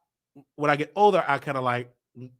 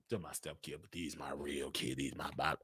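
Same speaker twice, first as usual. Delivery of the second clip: mock quote; 17 dB quieter than usual.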